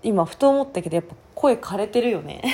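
hoarse, worn-out voice. Real, not acted. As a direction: talk through a hoarse throat. (声枯れ)

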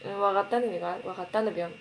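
わかったんだ、ぴょん said casually, with the ぴょん ending trailing off; わかったんだか then わかったんだ、ぴょん with a falling ending; Akita dialect. Shown as a demonstration. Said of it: "みたいな".

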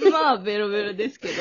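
tipsy giggly rush. Real, not acted. (酔っ払って笑いながら)

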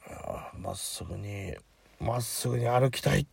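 put-on whispered, slurred drunk whine; drunk mumbling. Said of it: "とかって言いながら".

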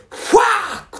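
high, hammed-up foreign yell of "ファーク"; mock swear. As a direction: play the furious exchange student swearing. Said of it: "って言い出した". (外国人留学生がオーバーに叫ぶ「ファーク！」)

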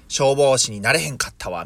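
lightly voiced Kansai-dialect quote; 関西弁. Quoting a picture book hippo who failed as firefighter, in Kansai dialect. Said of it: "関西弁なんですよね".

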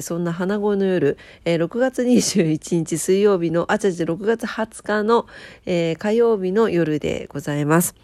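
stuffy nasal voice; blocked nose. Real, not acted. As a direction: speak with a congested nose.

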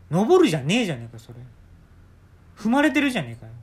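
shouted Kanto-dialect comeback; Kanto-dialect retort. Retold or imitated. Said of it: "関東弁が出たんですね".

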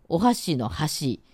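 「箸」 said with the Osaka pitch for chopsticks; 箸（chopsticks）のアクセント. Shown as a demonstration. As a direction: say 「箸」 as chopsticks, not bridge. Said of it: "日本語発音変わると意味が変わる言葉". (箸（はし）の大阪弁アクセント)

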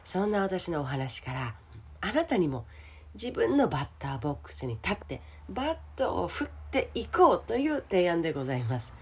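rough, scratchy throat; hoarse voice. Real, not acted. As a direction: talk through a sore throat. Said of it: "今日は声がガラガラでございますね".

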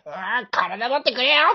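high, loud desperate cry; anime hero at full power. Retold or imitated. Like a Jump hero going all out, desperate cry. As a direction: give it everything you've got. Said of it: "っていう時あるやん".

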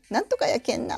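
light Tokushima dialect demo. Shown as a demonstration. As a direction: stress the けん ending, Tokushima style. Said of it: "けんけん言うんですね". (徳島弁で「けん」を効かせて)

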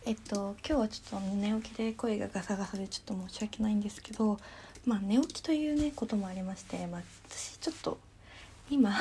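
hoarse just-woken-up voice; rough, gravelly morning throat; smoker's rasp. Real, not acted.

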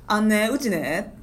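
slow Wakayama speech with "ね" endings; Wakayama dialect. Shown as a demonstration. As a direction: draw out each Wakayama "ね". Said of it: "って語尾につけ". (語尾の「ね」をゆっくり言う和歌山弁)

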